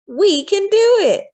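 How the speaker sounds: put-on rousing call to the kids; rallying cry. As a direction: shout it like a wartime poster. Rallying slogan shouted.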